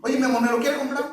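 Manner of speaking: a hint of a coaxing wife, quick; wife asking sweetly. Wife coaxes husband to buy dress, lightly voiced and quick.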